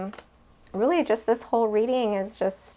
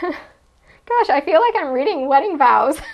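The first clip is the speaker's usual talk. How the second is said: laughing; 4 semitones higher, 5 dB louder than usual. Real, not acted. Embarrassed laughing remark.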